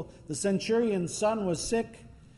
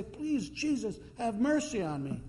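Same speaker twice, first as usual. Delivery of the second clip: pleading; 6 semitones higher, 3 dB quieter than usual. Retold or imitated. Woman kneeling, begging Jesus.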